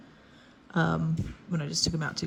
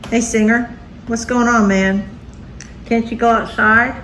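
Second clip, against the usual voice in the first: higher, louder call to the dog; 5 semitones higher, 10 dB louder than usual. Real, not acted. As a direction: call across the room to the dog. Calling out to her dog.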